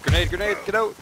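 high loud warning shout; grenade warning yell. Real, not acted. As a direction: scream the warning to escape. Grenade thrown, warning teammate.

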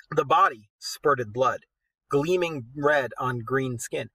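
steady storyteller reading aloud; story narration. A narrator's reading. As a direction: read it like an epic tale. Reads the poem aloud.

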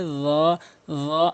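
"র" as a heavy voiced th, lips rounded; full round mouth. Shown as a demonstration. Teacher demonstrating, full rounded "র". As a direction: fill the mouth on "র". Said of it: "রটা মুখ পুর হবে".

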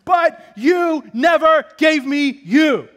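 slow, loud, high cry of hurt; meek wife finally shouting back; wife rising up. Retold or imitated. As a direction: fire it back at him, slow and full. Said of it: "rises up like a dragon".

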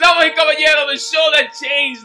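booming ring announcer intro; lucha libre announcer. Pretend. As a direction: hype it up like a wrestling host.

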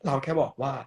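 high, bright cutesy host voice; cute character voice. Acted. น้องฟ้าฟ้า asking viewers to say shark, high and cutesy. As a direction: play a sweet little mascot teaching a word.

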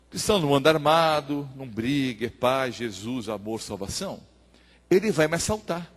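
low, soft thought, sinking and slowing; inner musing. Acted. Pastor reasons before a feared robber, quiet inner musing.

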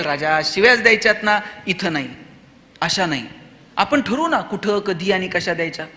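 soft, low coaxing; gentle reasoning. Acted. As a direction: reason quietly with a child, like a confidant. Teacher reasoning with a swearing child.

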